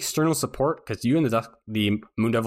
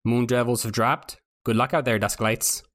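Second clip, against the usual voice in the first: Worthy's voice. Acted. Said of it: "Oh, that was it".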